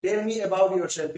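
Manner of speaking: very slow, word-by-word English example; slow careful reading. Shown as a demonstration. Teacher reading an example to students, very slow and deliberate. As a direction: dictate each word slowly for learners. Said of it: "इंटरव्यूअर के सामने फेस करते हैं".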